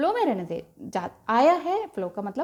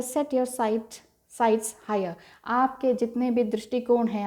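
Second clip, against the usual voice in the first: usual speaking voice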